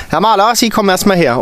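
teacher pulling the intern aside; stern teacher. A narrator's reading. Stern teacher ordering the intern over.

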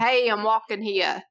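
a touch of mock New York accent; New Yorker accent. Podcaster showing co-host how the actor sounds, mock New York accent. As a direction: lightly imitate a stock New Yorker. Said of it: "that's what he sounds like".

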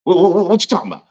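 high, fast, flustered other voice; mock baffled coworker. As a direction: rattle it off like he's lost.

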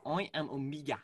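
lightly put-on New Zealand accent; Omega. Shown as a demonstration. Agreeing on Omega's vowels, New Zealand accent demo. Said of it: "The E is like I".

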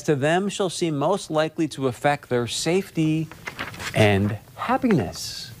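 measured reading of a founding document; formal recital. Acted. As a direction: read it like a solemn civic oath. Continues reading the Declaration.

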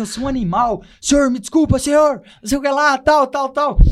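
high, frantic pleading; panicked apology. Retold or imitated. Recruit begging the officer for forgiveness, panicked pleading. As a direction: beg forgiveness in a rush.

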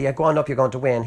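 fast, breezy mock encouragement; sarcastic. Micaiah mocking Ahab's wish to hear victory, sarcastic. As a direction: toss it off as a mocking send-off. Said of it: "he's being sarcastic, he's mocking".

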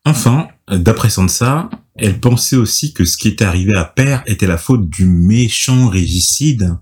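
measured storytelling read; scripted recap narration. A narrator's reading. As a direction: read the recap aloud with deliberate phrasing.

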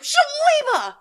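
very high, drawn-out comic outburst; sudden blurt. Pretend. Imagining remembering the name much later, mock outburst. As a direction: cry it out as if it just popped into your head. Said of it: "I'm just gonna be like".

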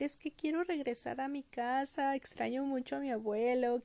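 lightly voiced sad little girl; homesick Heidi. Homesick Heidi answers her scolder, lightly acted plea. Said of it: "Heidi empieza a decir".

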